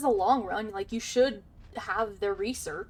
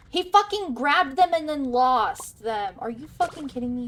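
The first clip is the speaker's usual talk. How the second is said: louder, higher, slowed exasperated rant; 4 semitones higher, 6 dB louder than usual. Real, not acted. Fuming at teammate over lost scraps, exasperated rant.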